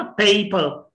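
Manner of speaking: पेपर in two distinct syllables with puffed P; पेपर, each P aspirated; aspirated syllable starts. Shown as a demonstration. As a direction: say पेपर with breath on both Ps. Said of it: "इसके दो syllables थे ना".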